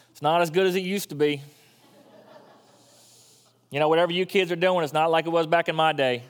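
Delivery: a hint of a Southern accent, old-timer complaining. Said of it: "Why do I go into a southern accent".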